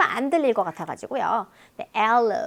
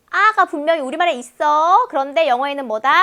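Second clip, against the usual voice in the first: ordinary talk, nothing marked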